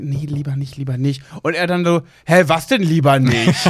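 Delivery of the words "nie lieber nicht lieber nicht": whispered, lower. Speaker retells moments of wanting to tell him something, whispering. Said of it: "dann so geflüstert habe und gesagt".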